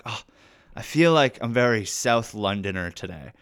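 put-on light South London accent. Actor joking at a photo shoot, South London accent. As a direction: slip into South London speech. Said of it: "Can you do that accent".

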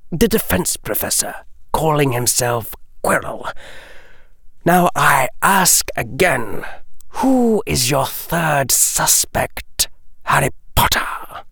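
a languid lord dropping a name; Lucius's voice. Acted. Lucius presses Harry.

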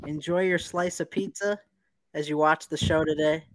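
echoing tunnel; muffled, like speaking in a tunnel; muffled tunnel sound. Real, not acted. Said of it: "You sound like you're in a tunnel".

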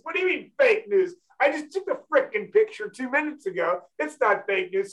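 retold annoyed retort. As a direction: imitate someone pissed off, without raising volume. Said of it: "She got all pissed off".

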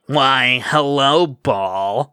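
lightly voiced smarmy rival; a touch of oily smugness. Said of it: "in that smarmy voice he always used".

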